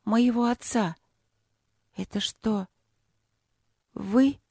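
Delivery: halting, high-pitched disbelief; horrified. A narrator's reading. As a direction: ask haltingly, dreading that it is true. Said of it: "с ужасом спросила она". (с ужасом, высоким голосом, с паузами)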